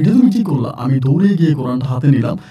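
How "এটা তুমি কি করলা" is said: high, shocked disbelieving question; shocked cry. Retold or imitated. Husband cries out at his wife over the Quran, shocked and high.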